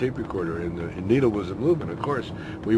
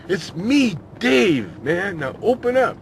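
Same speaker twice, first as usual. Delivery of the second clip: high, louder stoner voice; a buddy wanting in, a bit impatient; stoner at the door; 11 semitones higher, 7 dB louder, slower than usual. Retold or imitated. Dave outside the door to his friend, high impatient stoner voice.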